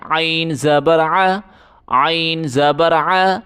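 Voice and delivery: ع pushed out with force from the throat; ain from the throat. Shown as a demonstration. Teacher showing pupils a throaty ain. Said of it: "گلے سے زور لگا کے عین پڑھیں".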